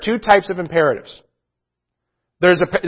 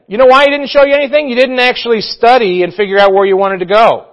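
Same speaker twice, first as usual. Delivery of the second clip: emphatic rebuke; 5 semitones higher, 5 dB louder than usual. Real, not acted. Preacher rebukes lazy prayer.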